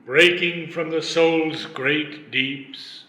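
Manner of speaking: measured verse reading with pauses between phrases; poetry recitation. Acted. Disciple reciting lines on inspired speech, measured recitation.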